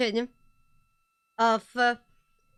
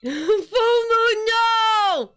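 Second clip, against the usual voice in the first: talking with a mouth full of food; words pushed around a mouthful; 7 semitones higher, 5 dB louder, much slower than usual. Real, not acted. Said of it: "I was talking with my mouth full".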